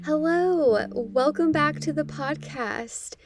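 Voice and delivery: muffled closet recording; close, dampened closet sound. Real, not acted. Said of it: "I'm sitting here in the dark in my closet".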